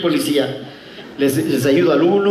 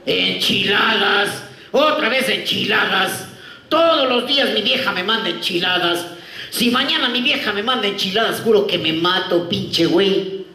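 slow, drawn-out Mexican complaining; mock Mexican accent, grumbling; 3 semitones higher, slower than usual. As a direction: whine it like a fed-up Mexican worker. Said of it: "El mexicano abría su lonchera y decía".

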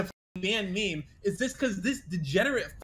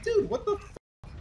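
much higher, slow disbelieving whine; exasperated; 13 semitones higher than usual. Retold or imitated. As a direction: stretch it out in fed-up disbelief. Retelling his exasperated reply.

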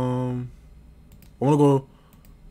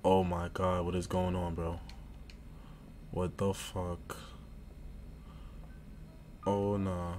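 hushed disbelief; 4 semitones lower, 10 dB quieter than usual. Real, not acted. Horror game sound on.

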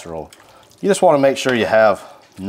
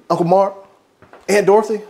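calling out; 9 semitones higher, faster than usual. Pretend. Calling out to relatives.

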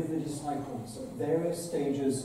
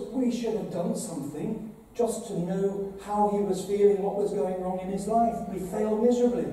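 higher, louder pleading voice of a shaken disciple; anguished disciple; 4 semitones higher, 3 dB louder than usual. Acted. Disciple blaming Peter and mourning Judas, anguished and louder. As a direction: cry out as a guilt-stricken follower.

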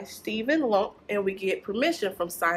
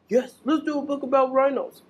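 quick, higher puppet reply; 4 semitones higher, much faster than usual. Acted. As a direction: answer eagerly as the little puppet. Puppet answers excitedly.

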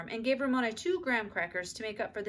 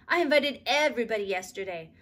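put-on girl explaining her party; child explaining; 7 dB louder than usual. A narrator's reading. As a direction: explain it innocently like a small child. Ramona's child voice continues.

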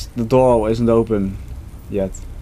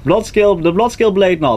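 put-on Dutch accent; 4 semitones higher than usual. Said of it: "You're even talking Dutch now".

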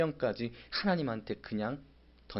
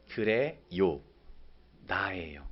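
whispered; 5 semitones lower, much slower than usual. Shown as a demonstration. Repeat of the answer, whispered.

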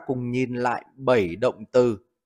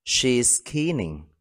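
slow model reading; slower than usual. Shown as a demonstration. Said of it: "Ví dụ, cô ấy đang khóc tang".

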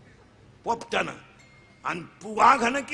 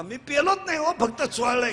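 put-on pleading boy; 4 semitones higher than usual. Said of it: "ते बापाला म्हणायचं".

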